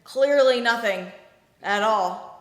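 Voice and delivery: mock innocent denial. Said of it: "the airline's pilots union saying that".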